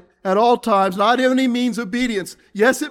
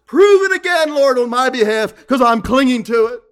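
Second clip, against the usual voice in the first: fervent plea; 3 dB louder than usual. Acted. Impassioned prayer to God.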